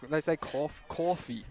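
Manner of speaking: New Jersey "coffee", drawn-out open vowel; New Jersey accent. Retold or imitated. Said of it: "New Jersey impression".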